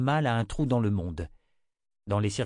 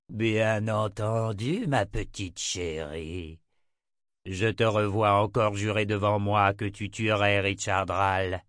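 Jagang's menacing voice; slower than usual. Acted. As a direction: purr the threat mockingly. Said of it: "plus basse et menaçante avec des accents nettement masculins".

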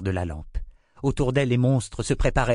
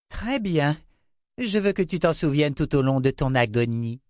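high, gloating queen's voice; cruel queen; 6 semitones higher than usual. A narrator's reading. Queen threatening the girl, gloating. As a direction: savor the threat.

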